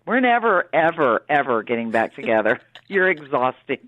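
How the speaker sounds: emphatic mock-defiant kiss-off, punching each ever; defiant breakup quote. Singer telling a boyfriend it's over, emphatically defiant. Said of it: "now she's like".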